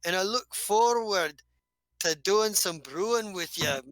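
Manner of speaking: lightly voiced hearty dwarf; friendly dwarf easing into the chat. Dwarf addresses Nurx.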